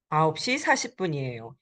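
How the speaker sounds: quick teacher echo. Shown as a demonstration. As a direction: run 아홉 시 사십 분이에요 together fast. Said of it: "It is nine forty".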